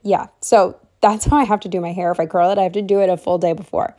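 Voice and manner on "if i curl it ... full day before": out of breath. Real, not acted. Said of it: "I'm, like, running out of breath as always".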